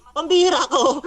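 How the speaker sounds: pambihira said with a derisive cackle; scoffing laughter; mocking laugh. Real, not acted. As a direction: laugh him off scornfully. Laughing at the opponent.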